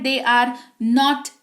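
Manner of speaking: very slow, pause after are; slow chunked model sentence. Shown as a demonstration. Teacher reading the English line slowly in two chunks. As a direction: split it for the class. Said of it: "वे लोग शिक्षक नहीं हैं".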